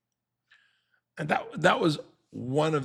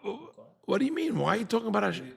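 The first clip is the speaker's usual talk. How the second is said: stammer, then higher-pitched mock protest; Korach's indignant reply; 6 semitones higher than usual. Korach answering Moshe, a hammed-up indignant protest. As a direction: play Korach as offended and scoffing. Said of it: "What's his answer to Moshe saying".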